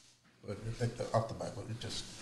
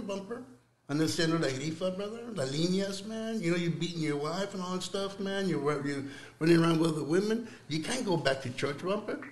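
taunting devil; 2 semitones higher than usual. Acted. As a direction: needle him like a mocking tempter, lightly voiced. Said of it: "He says".

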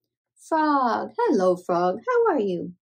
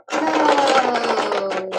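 excited go; 5 dB louder than usual. Real, not acted. Cheering race start.

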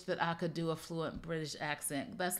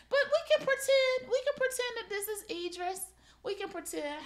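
sing-song, very high-pitched coaxing; playful pretending; 4 dB louder than usual. Host playing make-believe with a pillow, playful high voice.

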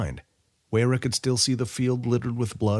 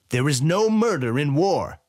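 slow, higher, louder pronouncement; professing general; 7 semitones higher, 4 dB louder than usual. A narrator's reading. General answering Weyra, slow firm higher voice. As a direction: lay it down as law. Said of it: "the general professed".

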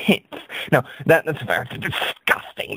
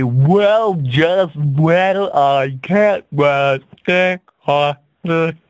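put-on American accent; 2 semitones higher, much slower than usual. Comic answering critics in an American accent. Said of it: "I slipped into an American voice there".

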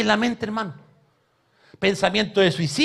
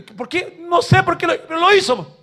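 mock sobbing; 10 semitones higher than usual. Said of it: "Y está llorando".

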